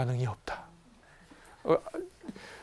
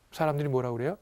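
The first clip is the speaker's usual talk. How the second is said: ordinary talk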